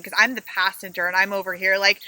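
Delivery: ordinary talk, nothing marked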